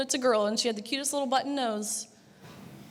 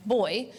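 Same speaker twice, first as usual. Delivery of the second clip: put-on "boy" punched out alone, louder, after a pause; stress on boy; 3 dB louder than usual. Shown as a demonstration. Speaker to the crowd, leaning hard on "boy". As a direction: hit "boy" hard as a word of its own. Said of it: "I put an extra emphasis on that word".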